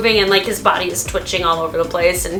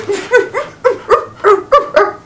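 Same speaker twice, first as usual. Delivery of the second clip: imitated dream yip; 12 semitones higher than usual. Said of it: "he starts going".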